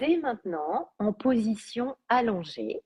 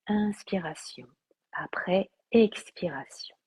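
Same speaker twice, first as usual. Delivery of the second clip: calm, unhurried yoga nidra voice; guided meditation. Acted. Teacher guiding listeners through relaxation and body awareness, calm meditation voice. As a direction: guide them toward half-sleep, phrase by phrase with long pauses.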